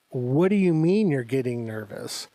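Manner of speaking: imitating one's own startled disbelief; retold alarmed disbelief. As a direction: stretch it out in mock alarm. Alarmed at friend's nerves, retold.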